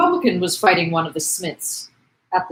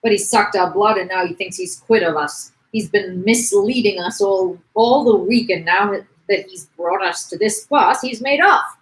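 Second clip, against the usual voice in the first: louder, aggrieved complaint; mild acted indignation; 5 dB louder than usual. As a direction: air the workers' grievance with some force. Workman rails against the publican.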